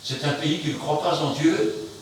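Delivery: usual speaking voice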